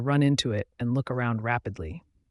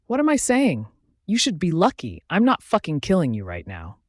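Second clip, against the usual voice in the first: indignant; 4 semitones higher, 4 dB louder than usual. Acted. Angry rant at unconscious captive.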